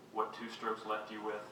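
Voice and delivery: measured poetry-reading voice; poem reading. Acted. Poet addresses mother after her strokes, measured recital. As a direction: read it as sombre verse, pausing between phrases.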